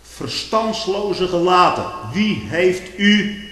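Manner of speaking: hoger, luider, heel langzaam uitgeroepen; Paulus trekt van leer. Acted. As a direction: fel vermanend uitroepen, hoog en traag. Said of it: "daarom trekt Paulus zo van leer". (Paulus vermaant de Galaten, luid en langzaam)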